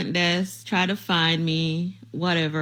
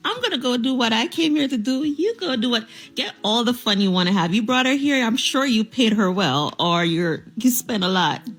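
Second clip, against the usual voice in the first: mock sweet dismissal; 4 semitones higher than usual. Calmly dismissing the boyfriend.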